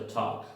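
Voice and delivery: "talk" with a rounded "aw" and silent L; rounded-vowel "talk", not "tak"; own rounded vowel. Shown as a demonstration. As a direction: say "talk" as "tawk". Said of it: "Yo lo pronuncio".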